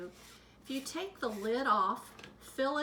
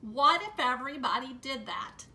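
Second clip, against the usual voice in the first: stern bus driver; 7 dB louder than usual. A narrator's reading. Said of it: "glared at me in the rearview mirror".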